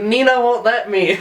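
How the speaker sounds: high, slow mock wail; retold freak-out. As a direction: draw out a drunken panicked protest. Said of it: "I was just freaking out".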